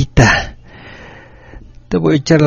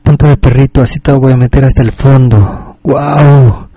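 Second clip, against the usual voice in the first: rising lust; 4 dB louder than usual. Acted. Erotic message, intensifying.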